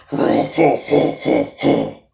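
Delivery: loud, mock villain ho-ho laughter; menacing laugh. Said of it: "all menacing and laughter".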